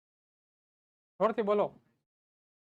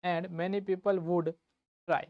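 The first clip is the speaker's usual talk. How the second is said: very slow, spaced-out teacher repeat; slowly, so the class can write; slow dictation; 2 semitones lower, 4 dB quieter, much slower than usual. Shown as a demonstration. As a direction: dictate it word by word.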